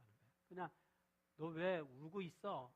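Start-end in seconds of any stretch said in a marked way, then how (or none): 1.4-2.7 mock-scolding demo, slow; how it should not sound, a light scold. Shown as a demonstration. Preacher demos scolding a weeping woman, mildly scolding. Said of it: "야단치듯이 말하는 게 아니에요".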